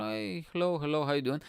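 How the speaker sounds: a hint of the girls' Scottish accent; imitated Scottish accent. Local girls greeting visitors, lightly imitated Scottish accent. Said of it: "with their accents and stuff".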